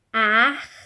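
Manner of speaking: "Ar-vo-re" split into three slow separate syllables; "Ar-vo-re" spelled out in slow syllables like a teacher; slowly, syllable by syllable. Shown as a demonstration. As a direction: break "Ar-vo-re" apart beat by beat for the class. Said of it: "Vamos ler bem devagar".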